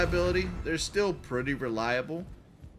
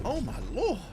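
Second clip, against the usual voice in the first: high, drawn-out Southern "Oh my lord" with a sing-song swoop; Southern drawl; 7 semitones higher than usual. Retold or imitated. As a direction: imitate a Southern churchgoer's "lord". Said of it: "That's a Southern thing".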